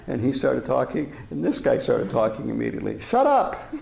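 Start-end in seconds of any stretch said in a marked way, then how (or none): 3.0-3.7 loud, high-pitched command; retold shout. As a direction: shout down the interrupter. Retold second outburst at interrupter.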